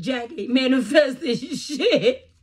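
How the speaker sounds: loud, slow, laughing retelling; giggly loud quote. Retold or imitated. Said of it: "he said".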